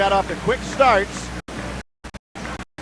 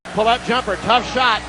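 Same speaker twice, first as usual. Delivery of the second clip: play-by-play. Acted. Live play-by-play call.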